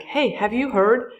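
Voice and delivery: excited. Retold or imitated. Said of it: "standing in a grocery store and saying".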